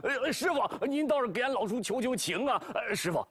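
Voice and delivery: hammed-up blubbering pig, pleading; mock wailing. Bajie begs Wukong and the master, hammed-up wailing. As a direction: beg for mercy with a fake sob. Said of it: "是嚎啕大哭".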